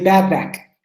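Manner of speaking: BAD BACK said slowly, each word distinct; careful pronunciation. Shown as a demonstration. Teacher modelling a tricky phrase, careful pronunciation. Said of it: "for your pronunciation. It's tricky".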